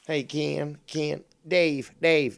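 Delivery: loud mock shout at Dave, Wire-style; Wire impression. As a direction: hail Dave like Wire would, punchy and loud. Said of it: "There we go".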